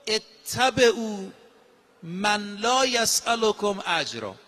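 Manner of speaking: very slow, drawn-out Arabic recitation; solemn scripture chant; Quranic recitation. Acted. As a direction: stretch each word of «اتبعوا» as if chanting. Quran verse recited in sermon.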